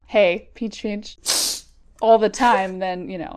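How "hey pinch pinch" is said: crab voice. Pretend. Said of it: "I like your crab voice".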